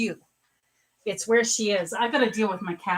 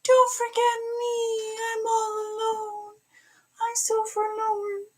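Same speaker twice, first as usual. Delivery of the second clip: much higher whiny cat voice, louder on the meows; voicing the cat; 13 semitones higher, 5 dB louder, slower than usual. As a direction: play the lonely cat begging not to be forgotten. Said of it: "So he's like".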